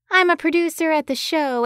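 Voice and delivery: put-on thick Boston accent, pinched through the nose; a Boston producer on the phone, nasal and thick-accented. A narrator's reading. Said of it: "A nasally voice came through the line in a thick Boston accent".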